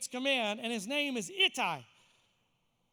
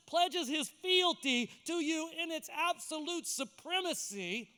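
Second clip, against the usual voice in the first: raised, emphatic pulpit delivery; building sermon, stretched key phrases; impassioned preaching; 5 semitones higher than usual. Real, not acted. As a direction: drive the promise home to the congregation.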